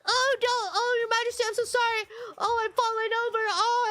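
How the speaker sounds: mock damsel. Streamer imitating impostor who fell before the prince, mock flustered. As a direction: imitate a simpering seductress. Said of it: "She's like".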